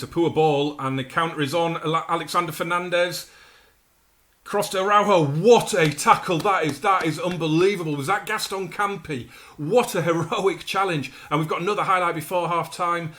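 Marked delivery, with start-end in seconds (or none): 4.4-11.1 amazed commentary. Real, not acted. Amazing tackle seen live.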